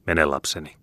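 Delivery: gentle, understated fatherly release. A narrator's reading. Father releasing his daughter Meri, gently. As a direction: let the child go tenderly. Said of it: "lempeämmällä äänellä kuin tavallisesti".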